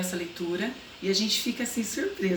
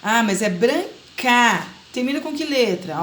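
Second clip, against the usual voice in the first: put-on child's question; 3 semitones higher, 5 dB louder, slower than usual. Shown as a demonstration. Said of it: "Eles fazem essa relação".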